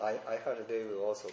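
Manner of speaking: halting word by word; I heard they will also read slowly, stumbling. Retold or imitated. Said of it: "こういうのだったら".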